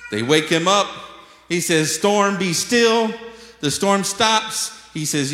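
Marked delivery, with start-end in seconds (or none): 1.9-3.1 loud, high, drawn-out order; acted command. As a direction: command the storm, slowly and forcefully. Acts Jesus commanding the storm.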